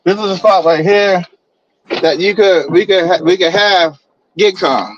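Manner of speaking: robotic broken-up call audio; glitchy robot-sounding phone line; buzzy glitchy call audio. Real, not acted. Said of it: "he sounds like a robot".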